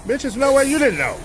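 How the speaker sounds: very high-pitched disbelief; incredulous retort. Real, not acted. Reactor throws the mother's own words back at her, incredulous.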